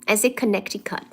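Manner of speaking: Connecticut with its middle C sounded, spoken softly; C pronounced. Shown as a demonstration. Streamer restating her own way to viewers, "Connecticut" with the C sounded. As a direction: say "Connecticut" with a clear K before the T. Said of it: "I always say the C in it".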